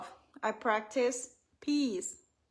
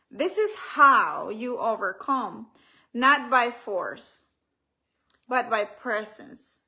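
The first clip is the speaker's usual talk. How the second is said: emphatic, deliberate closing declaration; affirmation reading; 4 dB louder than usual. Acted. Author closing her reading on overcoming fear, emphatic and deliberate. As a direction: punch key words, pausing between phrases.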